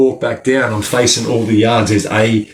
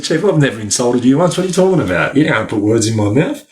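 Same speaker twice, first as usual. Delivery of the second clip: indignant protest; faster than usual. Retold or imitated. Protesting to the governor.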